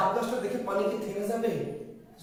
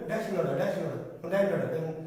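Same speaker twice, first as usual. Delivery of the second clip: quick repeated demo; 3 semitones lower than usual. Shown as a demonstration. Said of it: "কি বলেন?".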